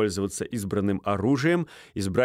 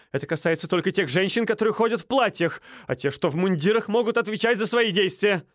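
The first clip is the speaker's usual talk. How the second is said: high, aggrieved; indignant complaint; 9 semitones higher, faster than usual. Acted. Стольский appealing to Минц, high and aggrieved. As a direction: appeal to the host, offended.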